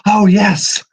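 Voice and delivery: high, eerie delighted voice; a sly spirit greeting the intruders; eerie echoing spirit. Acted. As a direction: purr it like a gleeful trapped ghost. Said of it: "Muse's voice echoes across you".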